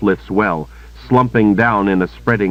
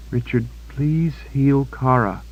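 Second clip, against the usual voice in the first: pleading woman; 7 semitones higher, 3 dB quieter than usual. A narrator's reading.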